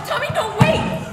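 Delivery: frightened cry as he steps to the edge; panicked plea. Acted. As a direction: beg him to stop, panicking. Pleading as he steps off.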